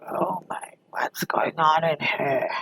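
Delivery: hushed, slow whisper of mock surprise; a lightly voiced boss, whispered; surprised whisper. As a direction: breathe it out like a startled boss. Boss walks in on loud music.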